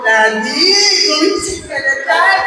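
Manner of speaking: low, gentle wake-up call, no shouting; calm low voice. Retold or imitated. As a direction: wake him without raising your voice. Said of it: "hindi mataas ang boses". (asawa ginigising ang mister, malumanay)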